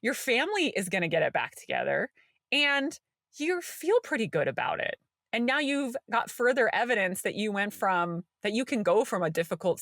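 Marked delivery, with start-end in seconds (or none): 0.0-5.0 reassuring inner voice. Retold or imitated. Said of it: "My nervous system is like".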